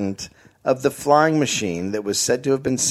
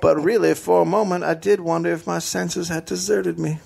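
dazed engineer. Acted.

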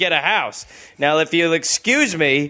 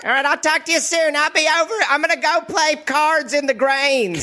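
laughing through the lines; cracking up mid-sentence; 7 semitones higher than usual. Pretend. Playing the father, laughing.

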